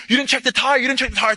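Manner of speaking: high, loud mock yell; screaming at his guy. Soldier yelling at his driver over the blown tire. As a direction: blame him for the tire, yelling. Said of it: "he starts screaming".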